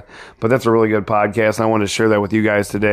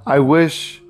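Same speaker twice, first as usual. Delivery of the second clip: bitter; 2 semitones higher than usual. Acted. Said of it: "said George bitterly".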